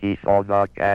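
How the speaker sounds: flat, toneless, monotone synthetic computer speech. A computer speaks a sentence built from fed-in sounds, flat monotone computer voice. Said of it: "The flat, monotonous tones of the computer".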